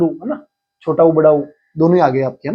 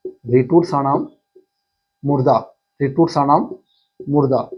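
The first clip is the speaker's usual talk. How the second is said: slower, deliberate recitation; slow recital; 2 semitones lower than usual. Shown as a demonstration. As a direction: say रिटूर साणाम slowly, syllable by syllable. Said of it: "अगला सूत्र".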